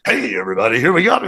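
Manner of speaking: lightly voiced DJ opener, swooping up at the end; mock on-air DJ greeting; radio DJ. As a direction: do a bit of a disc jockey intro. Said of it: "does his D J thing".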